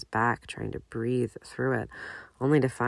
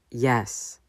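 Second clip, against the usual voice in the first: "Yes" said firmly and louder; emphatic; 4 dB louder than usual. Acted. Regulus insisting to James he was okay, emphatic "Yes". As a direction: press down hard on "Yes". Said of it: "Regulus repeats emphatically".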